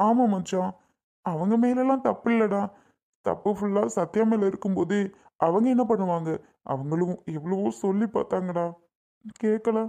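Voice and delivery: subdued, tearful defence; crying. Acted. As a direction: defend them weakly through tears. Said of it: "அழுதிட்டு இருக்கிறது". (அழுகை அடங்காத குரலில்)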